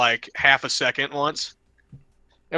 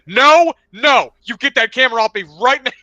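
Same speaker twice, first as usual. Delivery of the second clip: high, loud, fast shouting at the camera; telling the news crew off; angry yell; 9 semitones higher, 7 dB louder than usual. Retold or imitated. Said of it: "And I said".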